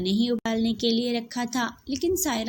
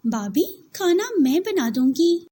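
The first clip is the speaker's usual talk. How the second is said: higher and louder, standing up for her; firm offer; 9 semitones higher, 6 dB louder than usual. Acted. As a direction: cut in firmly for the girl. Saira steps in against Yasmin. (जेठानी से दृढ़ता से)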